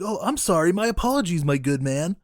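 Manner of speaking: mock polite robber. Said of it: "He's like".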